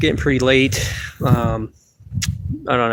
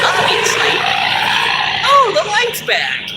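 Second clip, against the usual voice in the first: squeaky puppet voice, much higher; goofy high-pitched puppet; slower than usual. Acted. Puppet Phil talking.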